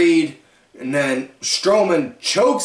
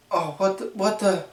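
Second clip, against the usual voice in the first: dismayed Woods; 5 semitones higher, slower than usual. Retold or imitated. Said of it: "Woods is looking like".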